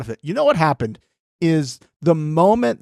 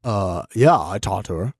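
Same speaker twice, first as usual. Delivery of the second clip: playing Josh. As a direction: stammer and dodge like a guilty Josh. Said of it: "I'll be Josh".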